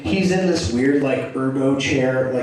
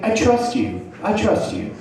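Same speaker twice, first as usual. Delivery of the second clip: high, mildly uneasy reassurance; imitating a friend's self-reassurance; reassuring himself; 8 semitones higher than usual. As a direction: say it high, as if convincing yourself. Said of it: "trying to reassure himself".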